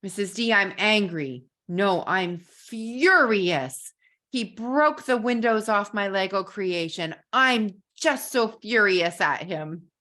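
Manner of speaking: put-on a child's indignant complaint, slowed on furious; mock furious child. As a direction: play the upset boy stressing how furious he is. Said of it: "and he says to me".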